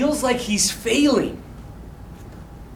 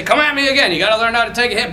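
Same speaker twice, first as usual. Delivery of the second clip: lightly voiced coaching dad; quick, urgent fatherly drilling; tough dad; much faster than usual. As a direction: push the boy like a coach. Dad drilling son at football.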